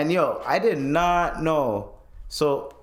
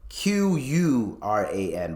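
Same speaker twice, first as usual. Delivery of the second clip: spelled out slowly; 4 semitones lower, slower than usual. Shown as a demonstration. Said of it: "by the way".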